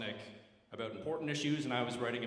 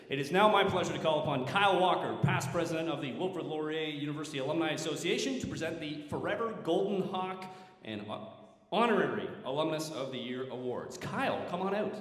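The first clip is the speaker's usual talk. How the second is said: raised, projected introduction voice; ceremony announcer; 4 semitones higher, 4 dB louder than usual. Real, not acted. Host calling past president up to present awards, announcer voice.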